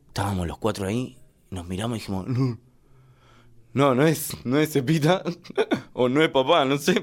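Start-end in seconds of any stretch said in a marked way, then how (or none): 2.3-7.0 put-on astonished kids. Los chicos ven la caja.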